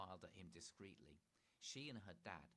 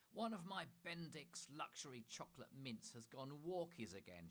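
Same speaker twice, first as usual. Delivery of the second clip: calling out; 5 semitones higher than usual. Acted. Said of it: "she called out".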